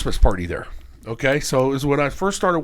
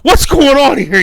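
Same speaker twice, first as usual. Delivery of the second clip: louder, higher startled question; family walks into the casino; mock shock; 10 semitones higher, 8 dB louder, slower than usual. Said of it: "I'm like".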